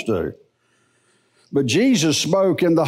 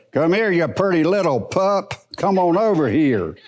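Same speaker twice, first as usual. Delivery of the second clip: same words in a firmer, sterner spirit; different spirit; 3 semitones higher than usual. Shown as a demonstration. Preacher calling the same dog in a sterner spirit. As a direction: call the pup without the sweetness. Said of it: "but it's a different spirit".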